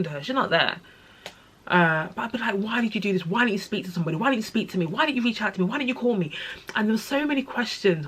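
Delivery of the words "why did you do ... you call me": higher-pitched, insistent reproach; re-enacted pleading anger; retold anger. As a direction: fire off accusing questions one after another. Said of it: "I used to be so angry".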